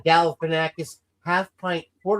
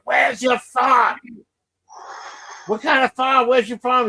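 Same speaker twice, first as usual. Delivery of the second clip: put-on shouting kid quote; 9 semitones higher than usual. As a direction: yell the question like the angry boy. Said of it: "he's asking Robert Downey Junior".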